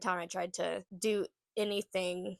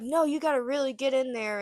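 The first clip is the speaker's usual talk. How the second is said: mock insistent advice, pitched up; imitated pushy urging; 4 semitones higher than usual. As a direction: egg someone on, a little raised. Others urging speaker to confront.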